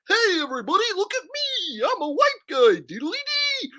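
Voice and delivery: very high, goofy mock white-guy voice; white guy impression. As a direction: squeal it as a corny, sing-song dork. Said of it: "I bet he talk like this".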